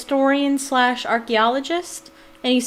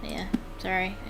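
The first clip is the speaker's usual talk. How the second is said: choked up; 2 semitones lower than usual. Real, not acted. Gamer apologizing for getting moved by a letter, slightly choked up. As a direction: apologize through a small lump in the throat. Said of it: "I get choked up".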